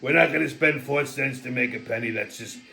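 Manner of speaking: a hint of Trump's blunt rambling; Donald Trump impression. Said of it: "it took Donald Trump to figure that out".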